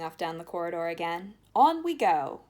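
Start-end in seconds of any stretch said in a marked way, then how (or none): 1.5-2.4 eager. A narrator's reading. Wonka urging them on.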